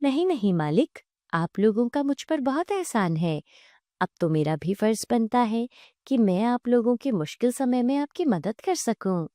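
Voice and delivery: lightly voiced, reassuring divine cow; calm their fears with swooping intonation; kindly talking cow. Talking cow reassuring the frightened family, gently earnest.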